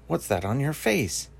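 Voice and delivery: curious Bilbo. Retold or imitated. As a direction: ask it slowly, pointing at him. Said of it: "he points at Gollum and asks".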